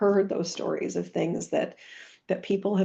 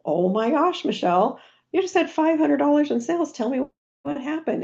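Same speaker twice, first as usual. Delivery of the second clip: much higher and louder, gushing praise; thrilled upline congratulating a seller on her sales; excited cheer; 9 semitones higher, 4 dB louder than usual. Retold or imitated. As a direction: cheer her on like big news just landed. Coach cheering a downline seller.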